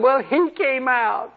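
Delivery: high, slow whining imp voice; mock whiny demon. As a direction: play the beaten demon confessing. Preacher voices a frightened demon.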